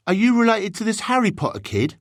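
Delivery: put-on high-pitched, curious boy; bigger boy. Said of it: "said the bigger boy".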